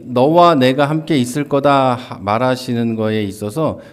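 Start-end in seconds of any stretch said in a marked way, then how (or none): 0.0-1.9 louder, ringing promise; emphatic quote. Acted. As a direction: proclaim the promise to the hall. Preacher stresses God's promise. (힘 있게 크게 선포하는 약속)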